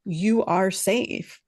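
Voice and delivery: slow, calm and steady; calm reassurance. Shown as a demonstration. Parent reassuring a dysregulated child, slow and calm. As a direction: reassure them gently and slowly. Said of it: "a really calm, slow tone".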